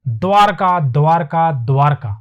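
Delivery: द्वारका three times, "dvaarka"; repeated drill. Shown as a demonstration. Teacher drills the word for students to memorise. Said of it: "तीन बार बोल लो".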